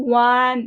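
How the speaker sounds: ওয়ান said with a w sound at the start, like wan; ওয়ান, open on a clear w; one said as wan. Shown as a demonstration. Teacher showing students how one sounds, ওয়ান with a w start. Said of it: "উচ্চারণ কিভাবে?".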